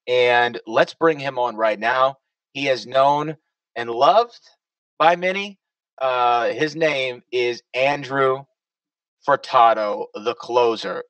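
slow, drawn-out announcer intro; guest introduction. Real, not acted. Host bringing the next guest on, announcer-style introduction.

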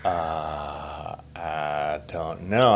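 panicked. Retold or imitated.

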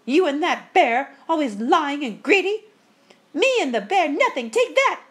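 high, loud bickering between sisters; furious squabble. A narrator's reading. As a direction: hurl accusations, building to a shrill blow. Ghost sisters' quarrel turns to blows.

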